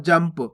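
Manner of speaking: जंप with an m closing into the p; आधा म उच्चारण. Shown as a demonstration. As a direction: lips shut on the nasal in जंप. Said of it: "आधा माँ का उच्चारण हो रहा है". (जंप, आधा म बोलकर)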